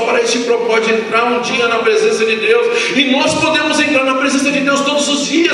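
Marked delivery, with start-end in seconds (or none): 2.9-5.5 high-pitched, urgent preaching cry; preacher crying out in reproach; impassioned exhortation. Real, not acted. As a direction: drive it up to an indignant peak.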